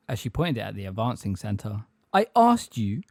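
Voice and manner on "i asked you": raised, forceful demand; rough demand. A narrator's reading. Magorian to Umbridge at wandpoint, rough demand. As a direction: throw the question at an inferior. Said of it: "said Megorian roughly".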